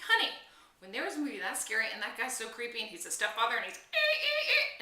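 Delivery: put-on excited stammer to the teenage boys; flustered explanation. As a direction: explain while too worked up to finish. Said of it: "I'm like".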